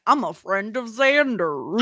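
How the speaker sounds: slow, put-on British accent as Spike; mock British accent. Podcaster imitating Spike's British accent. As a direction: drawl it in a fake British accent. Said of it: "I love that accent".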